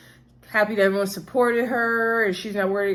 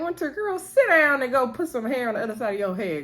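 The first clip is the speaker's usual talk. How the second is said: sassy comeback; 3 semitones higher than usual. Retold or imitated. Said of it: "come back piping back like".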